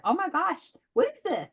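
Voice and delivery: put-on high, amazed kid's cry of wonder; excited kids. Kids at the park thrilled by the coloring pages, high excited squeal.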